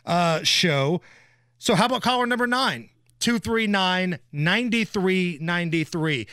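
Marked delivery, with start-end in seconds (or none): 1.6-6.3 upbeat DJ promo read; radio contest promo. Acted. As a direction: sell the contest, stretch numbers.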